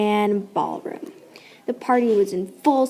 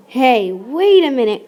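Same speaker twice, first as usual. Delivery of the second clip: cried out; 4 dB louder than usual. Acted. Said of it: "cried Hermione".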